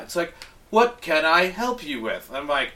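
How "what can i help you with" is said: mock robot voice. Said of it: "every time I talk to this stupid robot".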